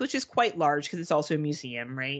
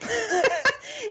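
high laugh. Real, not acted. Laugh alone on a line.

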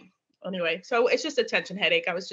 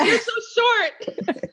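teasing quote; 12 semitones higher, much slower than usual. Retold or imitated. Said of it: "She goes".

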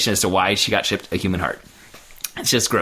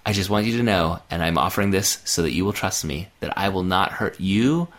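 lower, measured voice of solemn assurance; measured reassurance; 4 semitones lower than usual. Acted. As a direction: offer a careful, formal promise. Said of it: "he opens by saying".

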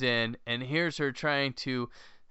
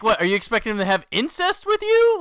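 incredulous; 6 semitones higher, 6 dB louder, faster than usual. Retold or imitated. Incredulous retort to movie line.

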